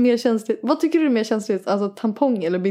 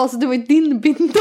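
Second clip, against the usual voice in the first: tag; 10 semitones higher, 4 dB louder than usual. Retold or imitated. Retold punchline breaking into laughter.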